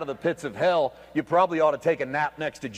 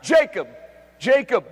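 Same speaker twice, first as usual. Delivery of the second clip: loud calling of the name; louder double call; 3 semitones higher, 5 dB louder than usual. Acted. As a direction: call the name across a distance. God calling out.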